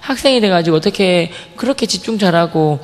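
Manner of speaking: a lightly voiced kind teacher offering a snack; gentle teacher voice. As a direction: praise the student gently. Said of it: "정말 온화하게 미소 지으시면서".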